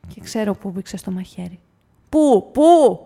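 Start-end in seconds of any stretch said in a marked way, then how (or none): 2.1-3.0 eager question. Acted. Eager question in tavern dialogue.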